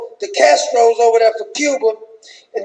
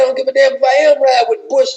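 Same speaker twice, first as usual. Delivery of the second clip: Michelle with attitude. Retold or imitated. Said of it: "She said".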